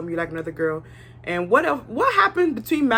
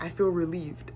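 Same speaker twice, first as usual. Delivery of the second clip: mock Jesse; 4 semitones lower, 6 dB quieter than usual. Imitating Jesse's cold reply.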